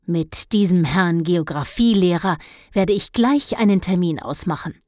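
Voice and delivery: she's going to sort him out; angry resolve. Acted. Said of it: "warf es wütend". (entschlossen und lauter, verärgert)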